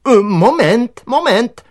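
high, loud call to hold on; encouraging shout. A narrator's reading. Director runs to help the treed gardener, shouting encouragingly. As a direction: call out urgently that help is coming. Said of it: "křikl povzbudivě".

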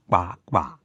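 ordinary delivery

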